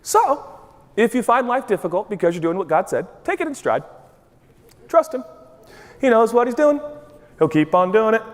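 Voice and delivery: breezy, unbothered advice; easygoing counsel in short phrases; matter-of-fact tone. Acted. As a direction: read it out as if it's no big deal. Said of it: "Listen to the tone again".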